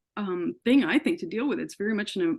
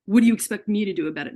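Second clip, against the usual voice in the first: her own retold yell at the doctor, louder and fast; 5 dB louder, faster than usual. Sick patient yells back at the ER doctor, loud and fast. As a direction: throw his words back at him, cornered. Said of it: "And I yelled it at him".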